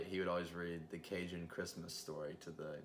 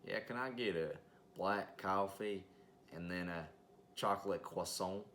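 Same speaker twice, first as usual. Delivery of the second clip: imitated Southern drive-thru customer, French croissant; thick Southern accent. Drive-thru customer ordering coffee, thick Southern accent switching to French. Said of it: "he had a thick Southern accent".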